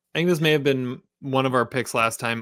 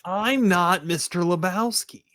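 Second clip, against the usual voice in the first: Lebowski quote; 6 semitones higher, slower than usual. Retold or imitated. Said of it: "Big Lebowski quote".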